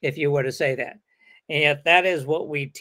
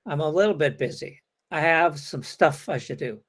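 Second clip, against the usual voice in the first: softened excuse; 3 dB quieter than usual. Shown as a demonstration. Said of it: "By the way, not".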